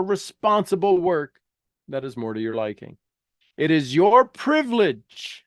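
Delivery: measured, earnest reading of a self-help text; reading aloud. Acted. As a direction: read it like an inspiring book passage. Reads aloud from Napoleon Hill.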